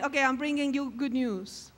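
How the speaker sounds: half-hearted, joyless imitation; sad-faced. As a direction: announce it with no joy at all, as a parody. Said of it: "sad face going".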